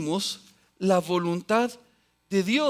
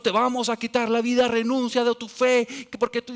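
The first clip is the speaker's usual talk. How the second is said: louder, higher threatening voice; mock threat; 5 semitones higher, 5 dB louder than usual. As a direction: play the persecutor demanding they renounce. Persecutor threatening the believer. (amenaza fingida, más alta y fuerte)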